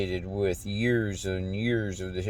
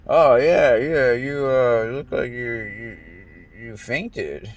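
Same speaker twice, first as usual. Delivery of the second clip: mock casual voice; 4 semitones higher, 6 dB louder, slower than usual. Mimicking people after his blackout.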